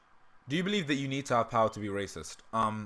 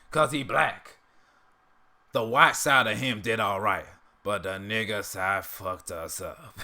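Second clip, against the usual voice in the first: put-on slow, louder old-bigot drawl; Uncle Ruckus impression; 4 dB louder, slower than usual. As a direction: sneer it like a cranky old man. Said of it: "the Uncle Ruckus impression".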